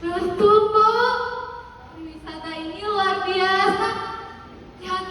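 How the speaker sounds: lightly voiced admiring visitor; enthusiastic tourist. Tourist tells local woman tourism modernized Bali, admiringly.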